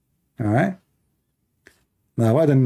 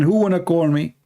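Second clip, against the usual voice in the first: calling out; 5 semitones higher than usual. Retold or imitated. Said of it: "I lost my voice saying".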